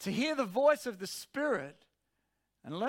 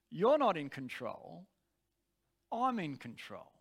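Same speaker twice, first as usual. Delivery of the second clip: measured reply, settling lower; quiet, gentle authority; 3 semitones lower than usual. Retold or imitated. Preacher's spirit answers the screaming flesh, gentle but in charge. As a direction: overrule calmly, without raising the voice. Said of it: "although it was quiet and it was gentle".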